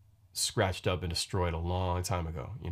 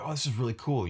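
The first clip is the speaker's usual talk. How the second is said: higher-pitched imitation of pleased fans; stoked listeners; 7 semitones higher, 3 dB louder than usual. Podcaster quoting listeners' responses, mildly stoked. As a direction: voice an impressed fan, pitched up. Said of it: "people were stoked".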